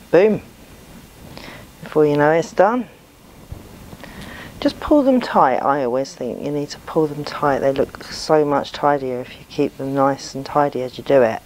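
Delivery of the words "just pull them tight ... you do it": breathing heavily while working; audible breaths between words; heavy breathing. Real, not acted. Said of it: "Sorry about my breathing".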